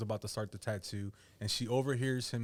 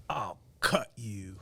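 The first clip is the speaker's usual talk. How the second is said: imitating a slow threat; slow menacing threat; much slower than usual. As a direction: draw out the threat like a thug. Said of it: "and he's like".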